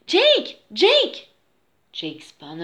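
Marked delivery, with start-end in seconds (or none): 0.1-1.3 high, rising calls; calling out. A narrator's reading. Louise calling her brother before he gets far, calling out. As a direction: call someone back by name. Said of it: "Louise called".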